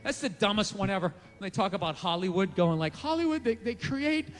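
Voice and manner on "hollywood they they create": little mocking voice. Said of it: "that little voice that he does".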